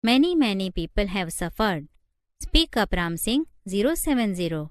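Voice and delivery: slow, measured emphasis on each word; stressing each word. A narrator's reading. Lawyer demanding the truth from a robot witness, stressing each word. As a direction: press lightly on word after word. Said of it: "Goel stressed each word".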